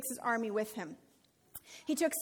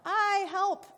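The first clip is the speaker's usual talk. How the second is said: higher, mock-panicked plea; panicked cry for help; 6 semitones higher than usual. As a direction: play the terrified Israelites, half-joking. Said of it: "I like these little thought bubbles".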